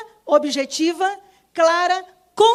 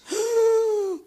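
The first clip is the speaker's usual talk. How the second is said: mock gasp; 8 semitones higher than usual. Mock shock at diagnosis.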